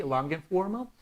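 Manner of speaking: "Long and formal" linked as one smooth phrase; softly linked "Long and formal" with rising end; connected words. Shown as a demonstration. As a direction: join "Long" straight onto "and", lift at "formal". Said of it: "try to connect this".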